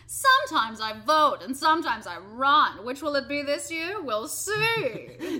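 lightly voiced goofy character; a hint of silly Brenda; silly clown. Plays Brenda.

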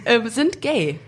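blocked nose from a cold; stuffy nose. Real, not acted. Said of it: "Sorry, ich bin krank".

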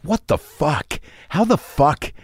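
high, stunned disbelief; incredulous outburst. Retold or imitated. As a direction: blurt it out in shock. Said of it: "I didn't say that".

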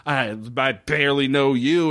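imitating her sarcastic denial, drawn out on the name. Woman pretends she barely knows Jim Profit, sarcastic. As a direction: play it mock-sarcastic, dragging the name slowly. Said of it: "she plays it so sarcastic".

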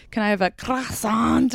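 mock French accent. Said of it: "Americans go to France".

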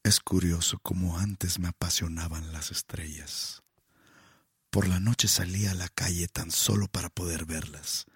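lightly voiced low seductive line. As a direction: murmur it close to her ear. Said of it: "las digo con mi nueva voz seductora".

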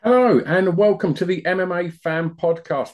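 high, loud, plummy host welcome; posh greeting. Acted. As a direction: open the show like a posh gentleman. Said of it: "That's very posh".

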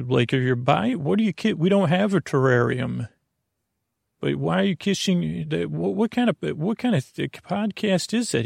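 a hint of a scoffing spouse; skeptical partner. Grumpy partner mocking the podcast, lightly baffled. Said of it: "lightly antagonistic couple".

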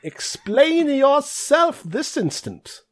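high, slow stern demand; stern old dean. Acted. Old orc dean demanding explanation, stern high voice. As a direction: demand it like a stuffy headmaster.

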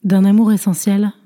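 trancher net, sans appel, en légère touche; péremptoire. Acted. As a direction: une sentence posée avec autorité. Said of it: "d'un ton péremptoire". (la vieille dame assène sa maxime d'un ton péremptoire)

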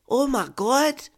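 high, drawn-out gasp of horror; gasped shock. Acted. Woman hearing of planted drugs, gasping in shock. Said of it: "I gasped".

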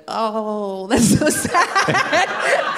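slow, drawn-out sympathetic "oh, that's so sad"; mock pity. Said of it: "everyone would be like".

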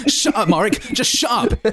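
high laughing protest; laughing through shut up. Real, not acted.

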